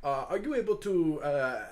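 put-on inquisitive French-accented character; Hugo, curious and flattering. Hugo asks the dragon about flying, curious French accent. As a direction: probe politely with flowery praise.

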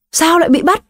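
high, shaky frightened question; mother on the phone, high trembling cry. Acted. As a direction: cry it out with the voice shaking. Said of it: "Giọng nói bắt đầu run run, bà Lan hét lên".

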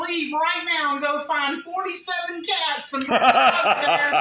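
loud and slow, laughing through. Retold or imitated. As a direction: laugh as you retell it. Laughing retelling his panic.

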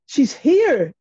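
high, loud shout; yelled. A narrator's reading. Son announcing the visitor to his mum, yelled. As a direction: yell out the announcement. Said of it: "he yelled".

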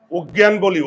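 অজ্ঞান with rounded o first vowel; wrong pronunciation. Shown as a demonstration. Teacher to class, demonstrating the wrong o-sound. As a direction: say অজ্ঞান as "oggyan", jaw closed. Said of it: "আমরা তো অজ্ঞান বলি না".

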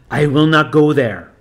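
defiant demon. Acted. Demon refuses the priest.

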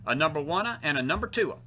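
lightly imitated bandleader count-off; a hint of a bandleader counting in. Preacher quoting a bandleader as a joke, light imitation of him. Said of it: "As Lawrence Welk would say".

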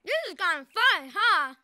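talking while chewing; mouth full. Acted. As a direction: say it through a mouthful of cookie. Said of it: "you shouldn't talk with your mouth full".

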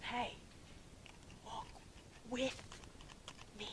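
soft, with a long pause after each word; God, unhurried invitation. Retold or imitated. God calling someone racing ahead, gently unhurried. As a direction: space out a quiet, gentle invitation. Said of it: "He said".

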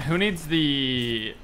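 words stretched out slowly while thinking; slow, drawn out. Real, not acted. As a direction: drag the words out, searching for them.

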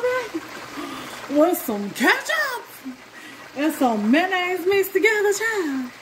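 high, slow, sing-song relish; dreamy food rapture, stretched high; excited. Real, not acted. Raves about fries with ketchup.

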